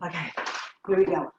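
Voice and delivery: breathless after the exercise; out of breath. Real, not acted. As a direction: speak between heavy breaths. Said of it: "I'm a little out of breath".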